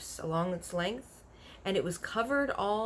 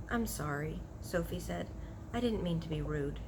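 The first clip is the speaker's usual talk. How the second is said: soft apology; 6 dB quieter than usual. Acted. Sophie apologises to forlorn giant.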